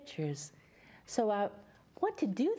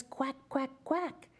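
a lightly voiced duck quacking, rising; 4 semitones higher than usual. Reading to children, the duck swims and quacks. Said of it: "swims around and says".

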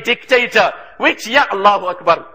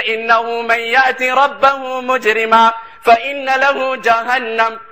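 melodic chanted recitation, fast; Quranic recitation; much faster than usual. Acted. Preacher chants the verse to the youth, melodic recitation.

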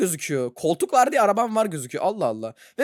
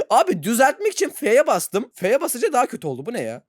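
usual speaking voice

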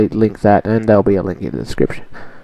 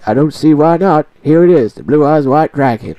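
grandpa voice; 3 semitones higher than usual. Acted. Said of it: "Yu-Gi-Oh! Abridged dubbed by myself".

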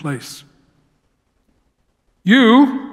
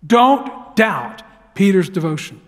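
slow, measured stress on "Don't doubt", with a gap before "Peter's devotion"; emphatic repeat. Real, not acted. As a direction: drive home "Don't doubt" slowly. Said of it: "I wanna emphasize something".

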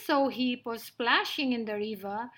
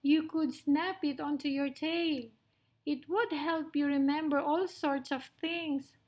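higher, eager mouse voice; little mouse, eager; 4 semitones higher than usual. Acted. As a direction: offer help as a tiny mouse.

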